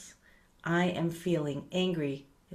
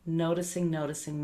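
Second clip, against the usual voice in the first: gentle noting. Shown as a demonstration. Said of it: "It's just to notice this".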